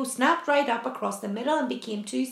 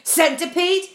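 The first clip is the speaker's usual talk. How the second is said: raised call, lifting at the end; yelled; 4 semitones higher, 4 dB louder than usual. Acted. James yelling to the centipede, raised call. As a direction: call his name out sharply. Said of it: "James yelled".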